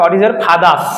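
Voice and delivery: slow model with "father's" said fa-das. Shown as a demonstration. Teacher shows learners the silent R, "father's" as fa-das. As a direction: drop the R in "father's", taking it slowly. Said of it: "সুতরাং এই আরটা উচ্চারণ হবে".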